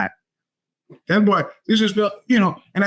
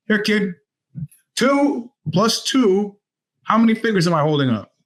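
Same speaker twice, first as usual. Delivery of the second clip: a stern teacher hammering the question; drilling teacher; 4 semitones higher than usual. Retold or imitated. Teacher Phil drilling a kid.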